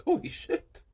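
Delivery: high, breathless holy-shit gasp; awed gasp. Retold or imitated. Watching the horse's eyes roll back, breathless. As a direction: gasp it out, stunned. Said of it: "I was like".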